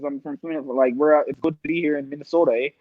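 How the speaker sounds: put-on quick, light Canadian accent ending on eh; a hint of a Canadian guest; a touch of a Canadian accent, fast; mock Canadian accent. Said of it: "he's fucking Canadian, and you hear it".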